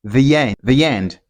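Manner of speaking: 'The end' run together as 'thee-yend'; linking Y. Shown as a demonstration. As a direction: slip a y between 'The' and 'end'. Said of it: "will sound like the end".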